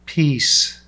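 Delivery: firm, commanding single word; otherworldly emphatic command. Acted. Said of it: "just as being emphatic".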